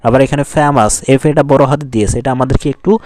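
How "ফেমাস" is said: "ফেমাস" with force on "ফে"; stressed first syllable. Shown as a demonstration. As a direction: lean on the "ফে" of "ফেমাস". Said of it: "জোর দিয়ে পড়তে হবে". ("ফেমাস"-এর "ফে"-তে জোর)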